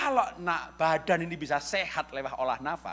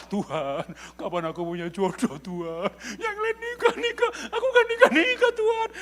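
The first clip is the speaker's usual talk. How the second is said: hammed-up moaning to God about staying single; mock crying complaint; whiny lonely prayer; 7 semitones higher than usual. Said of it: "Habis doa bukannya jelek".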